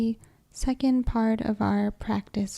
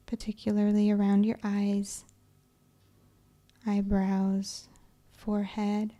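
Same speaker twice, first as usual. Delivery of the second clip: calm, unhurried yoga nidra guidance; measured, even-toned relaxation voice; guided meditation. Acted. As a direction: ease them into relaxation with long pauses between phrases.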